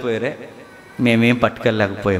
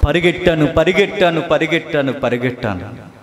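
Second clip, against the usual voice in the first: fading repetition. Acted. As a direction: let the repeats die away. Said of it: "ఈ పాటలో అంటున్న మాట".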